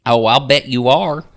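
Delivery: high, loud, sly folksy lady; knowing Linda. Acted. Linda teases the girls with a knowing wink. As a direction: wink through the words. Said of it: "She winks at me".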